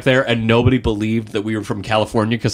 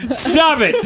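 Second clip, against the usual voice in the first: high shrieking stop; dramatic shout; 14 semitones higher than usual. Acted. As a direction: overdramatic panicked yell. Mock outburst.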